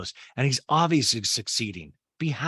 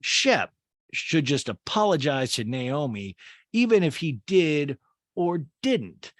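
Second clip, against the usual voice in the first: higher, slow drawn-out advice; imitating Marcy; 3 semitones higher, 4 dB louder, slower than usual. Host mimics Marcy advising at the table, slow higher drawl. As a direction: lean on it slowly, knowingly. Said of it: "and Marcy says".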